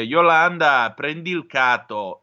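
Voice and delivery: loud call across the beach, then easing off; father calling his daughter on the beach at Tropea, loud; yelling to his daughter. Retold or imitated. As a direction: shout the name, then the order. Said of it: "urlò a sua figlia".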